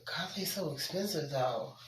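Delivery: breathy whispered aside. Real, not acted. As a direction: whisper it like a secret complaint. Whispered aside about the cost.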